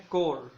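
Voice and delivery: कोर drawn out slowly for emphasis; stressed first syllable. Shown as a demonstration. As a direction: isolate and stretch कोर. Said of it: "करेज में से".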